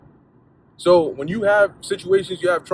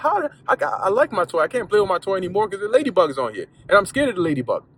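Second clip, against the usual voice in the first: put-on upset child; 5 semitones higher, faster than usual. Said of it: "They're like".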